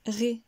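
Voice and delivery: RÉ with the sound going down; falling tune. Shown as a demonstration. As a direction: let ré drop as the last syllable. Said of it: "Le son descend".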